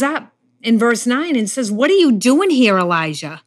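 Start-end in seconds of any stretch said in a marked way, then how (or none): 1.7-3.4 God's voice calling Elijah out of hiding; calling him out. Acted. God calling Elijah out of the cave, firm summons. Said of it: "He's calling him out".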